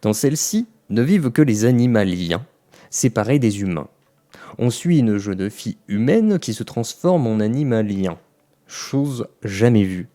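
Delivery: measured read-aloud of a written summary; reading a synopsis. Real, not acted. Reviewer reading a self-written synopsis to viewers, measured narration. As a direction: read it out phrase by phrase, with pauses.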